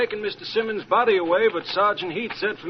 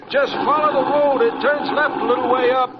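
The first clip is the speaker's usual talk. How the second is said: raised voice over the car; calling out; 4 semitones higher, 5 dB louder than usual. Acted. Caretaker calling directions to the car from outside, loud. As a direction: call directions from the running board. Caretaker calls out from running board.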